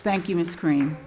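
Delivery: usual speaking voice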